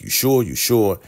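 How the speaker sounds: imitating someone getting frustrated; mock frustration. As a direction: press the question with mock irritation. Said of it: "getting real mad, real frustrated".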